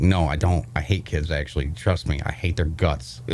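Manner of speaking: quiet, low deadpan aside; muttered aside. Pretend. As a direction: mutter it under your breath. Mock denial to kids.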